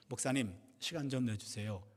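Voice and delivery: low, soft voice of a troubled caller; subdued request. Retold or imitated. Deaconess phoning her pastor for time, subdued. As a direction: ask quietly and low, as if burdened.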